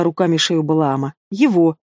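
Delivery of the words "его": «Его» твёрдо, с нажимом; закрепи мысль одним словом; настойчивый повтор. Acted. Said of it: "повторила, чтоб уж наверняка". (настойчиво «Его»)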